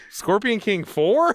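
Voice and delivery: slow, disbelieving rising question; incredulous question. Retold or imitated. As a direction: ask it in mock disbelief. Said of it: "people will ask, like".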